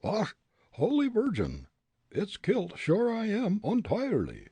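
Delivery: high Irish lament; Irish wailing. Acted. Grogan hurt and panicking, in Irish brogue.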